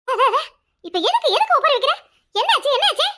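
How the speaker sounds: a high, laughing character voice asking what happened; high put-on voice. Relative finds her wailing, asks in a high laughing voice. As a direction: voice pitched well up, teasing a wailing woman.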